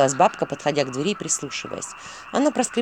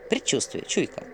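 gloomy whisper; 5 dB quieter than usual. A narrator's reading. Owl explains gloomily.

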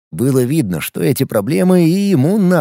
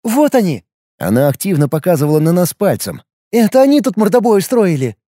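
accusing shout; 4 semitones higher than usual. Acted. Woman accusing, pointing.

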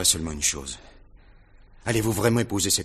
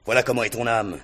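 contemptuous taunt; 4 semitones higher, 6 dB louder than usual. Acted. Rogojine taunting Gania.

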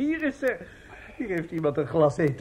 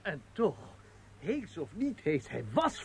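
much softer, slow murmur; quiet aside; 12 dB quieter than usual. Acted. The manager murmurs to the assistant, much softer. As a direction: keep it down backstage.

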